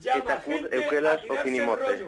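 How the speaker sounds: phrase spoken in reverse, letter by letter; backwards speech. Shown as a demonstration. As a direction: say the sentence backwards, steady and careful. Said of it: "me dices una palabra, una frase y te la digo al revés".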